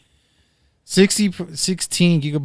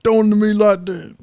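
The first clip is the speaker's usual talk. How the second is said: laughing; 9 semitones higher, 6 dB louder than usual. Real, not acted. Laughing while protesting.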